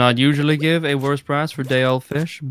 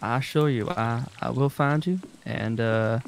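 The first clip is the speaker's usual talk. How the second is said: put-on southern accent; 3 dB quieter than usual. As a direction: play a courteous Southerner making threats. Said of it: "What, my southern accent?".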